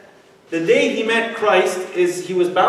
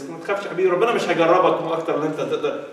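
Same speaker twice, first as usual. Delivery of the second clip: mock soothing mom; much faster than usual. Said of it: "mama تيجي تطبطب علينا كده".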